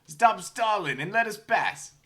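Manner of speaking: high, slow furious yell; angry shout. Acted. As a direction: bellow it like a cranky gnome. Gnome yells at player.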